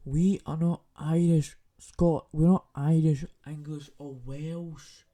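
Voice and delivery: loud yell that Scots are not Irish; angry shout. Real, not acted. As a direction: shout it, indignant. Angry rant.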